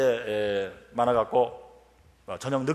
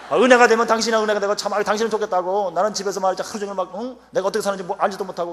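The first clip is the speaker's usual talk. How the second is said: higher, louder aggrieved wife; retold nagging, pitched up and loud; wife's complaint; 5 semitones higher, 5 dB louder than usual. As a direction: play the fed-up wife venting.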